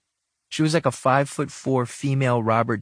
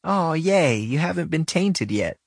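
higher, amused, chuckling through it; 7 semitones higher than usual. Acted. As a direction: say it with a little laugh. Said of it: "she said with a chuckle".

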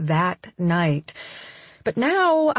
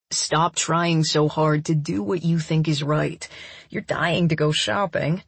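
low, coaxing man voice; lightly voiced man; 4 semitones lower than usual. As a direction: tease her in a lower voice. Daniel's lines in story.

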